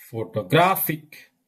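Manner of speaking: "photographic" with weight on GRA; stress on third syllable. Shown as a demonstration. Teacher presenting shifting stress, third-syllable stress. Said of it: "third syllable".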